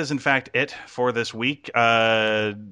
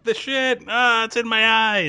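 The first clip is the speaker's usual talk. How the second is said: mock disgust; 12 semitones higher, 3 dB louder, slower than usual. Mock horror at feces in eyes.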